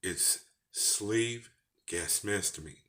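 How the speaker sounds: Texas twang on a medical term. Real, not acted. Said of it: "here's where my Texas twang come in".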